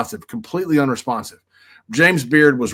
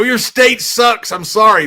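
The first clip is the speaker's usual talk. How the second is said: mock apology; 8 semitones higher, 6 dB louder, slower than usual. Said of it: "I go".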